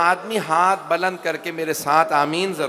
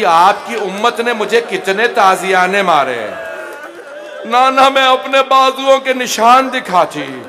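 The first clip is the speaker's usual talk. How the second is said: grieving lament; 4 dB louder than usual. Acted. Zainab showing her wounds to her grandfather, swelling wail. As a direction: let the grief swell to a cry on the last line. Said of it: "बीबी ने बस एक जुमला कहा".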